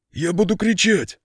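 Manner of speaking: high, scared wail; frightened threat to scream. A narrator's reading. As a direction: panicky cry of a cornered man. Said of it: "в страхе запричитал". (испуганно, на высокой ноте)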